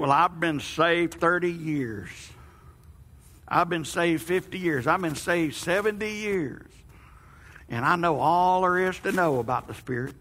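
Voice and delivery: slow, lightly voiced old man. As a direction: drag it out like an old-timer. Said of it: "Amy hates my old man voice".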